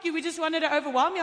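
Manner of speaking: excited mom. Retold or imitated. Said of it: "so she's like".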